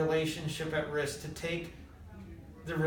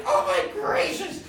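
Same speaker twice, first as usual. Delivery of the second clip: high, loud mock astonishment; mind-blown amazement; 7 dB louder, slower than usual. Storyteller voicing his friend's sudden realization, astonished. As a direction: exclaim it as if your mind just exploded. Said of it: "his mind explodes".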